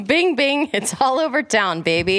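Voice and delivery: mock-dramatic cold read, breaking into giggles. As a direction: read pop lyrics as drama. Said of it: "Dramatic reading, cold read".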